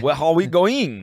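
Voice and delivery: put-on drawn-out French-accented question; mock French accent. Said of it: "can't even do a French, like, mock".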